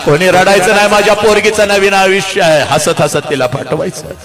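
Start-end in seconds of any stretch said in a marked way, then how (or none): 0.1-2.6 father calling out, raised and cheerful; lightly voiced father calling guests; mock call to the crowd. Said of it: "सगळ्यांना ओरडतो". (वडिलांची हाक, सौम्य)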